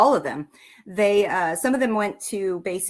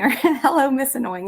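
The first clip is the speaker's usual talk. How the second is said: mock sweet greeting; 7 semitones higher, 5 dB louder, faster than usual. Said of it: "you're just like".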